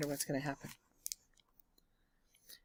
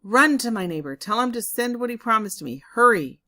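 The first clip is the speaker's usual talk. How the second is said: loud, higher hurried commands; urgent orders; 5 semitones higher, 9 dB louder than usual. Acted. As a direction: hurry the boy along at full volume. Farmer urgently sending the boy.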